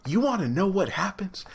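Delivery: breathy secretive hush, leaning in; teasing whisper. Acted. Vlogger teasing viewers before the twist, whispered.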